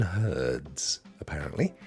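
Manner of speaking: whispered. Real, not acted. Aside about the game.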